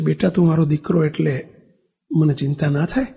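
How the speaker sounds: low, soft, mildly tearful plea; a touch of crying in the voice; tearful mother. Retold or imitated. Mother asks her sick son why she can't worry, mildly tearful. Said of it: "એની mummy રડતા રડતા".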